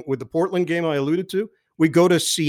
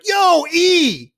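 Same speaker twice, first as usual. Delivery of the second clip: high, loud call across the bar; 13 semitones higher, 6 dB louder than usual. Retold or imitated. Tipsy teammate calling out to the broadcaster, loud. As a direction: hail a buddy from across the room.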